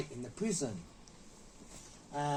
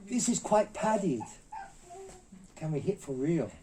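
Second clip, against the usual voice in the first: raised voice meant to be overheard; retold loud aside; 6 semitones higher than usual. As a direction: say it for the whole set to hear. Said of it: "he said it quite loud".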